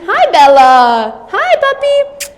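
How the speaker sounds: very high cooing hello to the puppy; high pitch. Shown as a demonstration. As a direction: pitch it way up for the pup. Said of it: "You can do high pitch".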